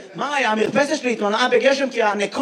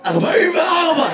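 real hoarse voice, pitched higher; 4 semitones higher than usual. Real, not acted. Audience member giving his age to the comedian, hoarse. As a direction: answer through a hoarse throat. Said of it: "לא, למה אתה נשמע ככה?".

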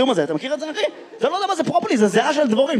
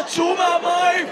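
lifeguard yell; 5 semitones higher, slower than usual. Retold or imitated. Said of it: "אתם נכנסים להתפלה".

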